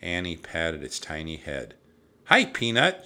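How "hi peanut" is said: higher, louder, sweet greeting; cooing greeting. A narrator's reading. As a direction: talk to a tiny pet. Annie greets the tiny mouse.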